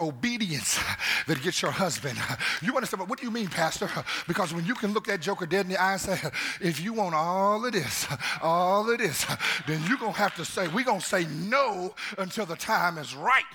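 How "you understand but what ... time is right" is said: preaching climax. Acted. Pastor rousing single people, building to a shout.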